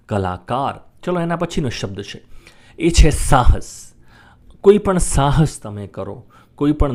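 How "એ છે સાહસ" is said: hushed dramatic reveal of the word; whisper. Acted. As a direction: whisper it like a secret. Announcing next word.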